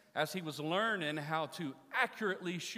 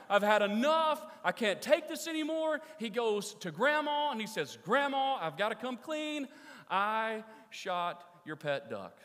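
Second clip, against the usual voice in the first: louder and higher, bursting out; fed-up outburst; 8 semitones higher, 7 dB louder than usual. Acted. Boy finally confessing to grandma, loud and fed up. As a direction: blurt it out, at the end of his rope.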